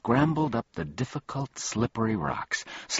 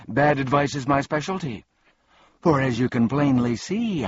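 higher-pitched proud villain; boastful fiend; 6 semitones higher, 4 dB louder than usual. A narrator's reading. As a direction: brag as the mischievous fiend. Fiend boasts of bad advice.

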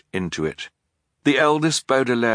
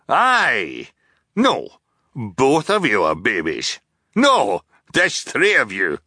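cheerful scattered shouting; slower than usual. Acted. Captain shouting jumbled ladder instructions at the orphans, cheerful. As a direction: bark silly commands cheerfully, changing mind constantly.

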